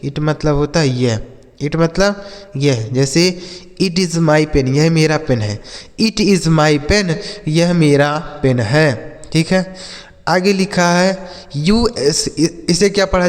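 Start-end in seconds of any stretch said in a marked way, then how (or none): 6.0-7.1 spaced out word by word; slow dictation voice; slow model sentence. Shown as a demonstration. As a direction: read it slowly for children. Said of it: "teacher's slow model sentence".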